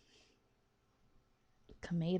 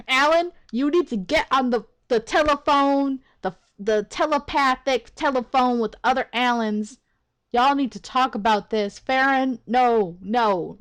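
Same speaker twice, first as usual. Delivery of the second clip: heated, emphatic telling-off; angry rant. Real, not acted. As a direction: rant at them, pushing each demand. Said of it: "I'm angry".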